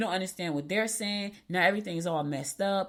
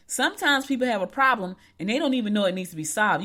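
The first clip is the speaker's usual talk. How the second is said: a little louder, leaning on "Sometimes"; emphatic repeat; 2 semitones higher, 5 dB louder than usual. Shown as a demonstration. Coach repeating her point to listeners, with more weight. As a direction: drive the line home, stressing "Sometimes". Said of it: "Let me say that part again".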